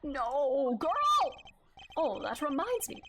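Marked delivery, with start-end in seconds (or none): 0.0-1.3 frustrated shout. Real, not acted. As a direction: yell it at the screen. Yelling at game character.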